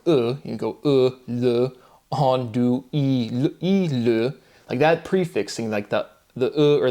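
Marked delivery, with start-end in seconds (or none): 0.1-3.9 "andouille" built slowly from its last sounds; built up backwards. Shown as a demonstration. Demonstrating last syllable first, built up backwards. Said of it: "you would start with".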